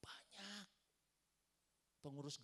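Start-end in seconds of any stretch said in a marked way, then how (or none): 0.0-0.7 whispered. Real, not acted. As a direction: whisper Banyak. unvoiced. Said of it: "Eh, banyak gak?". (berbisik kata Banyak. tanpa suara)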